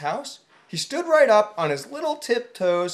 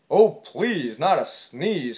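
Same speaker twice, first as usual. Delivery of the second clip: pleading bear; 4 semitones lower, slower than usual. Acted. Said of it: "cried the bear".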